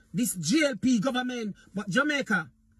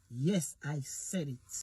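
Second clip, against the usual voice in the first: defiant; 10 semitones lower, 6 dB quieter, slower than usual. Real, not acted. Defiant closing of political rant.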